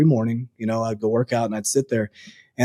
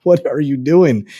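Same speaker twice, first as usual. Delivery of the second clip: slow, louder imitation of mom's dismay; mom's disbelief; 3 semitones higher, 6 dB louder, slower than usual. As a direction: drag it out like a stunned mother. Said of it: "And she's like".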